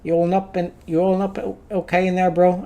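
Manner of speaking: a rough, uncertain go at an Aussie bro; attempted Aussie guy. Game visitor asks what's going on, attempted Aussie voice. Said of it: "I don't know how to do an Aussie accent".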